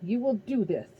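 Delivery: lightly voiced commanding Titan; a cold ruler giving orders; Titan lord's voice. Kronos commands his servant.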